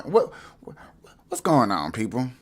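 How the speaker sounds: stunned whisper. Real, not acted. Asking viewers in disbelief, whispered. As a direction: breathe it out in disbelief.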